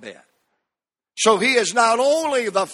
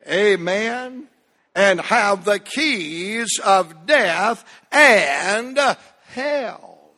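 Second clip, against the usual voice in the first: congregational recitation; much slower than usual. Shown as a demonstration. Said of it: "Say it with me".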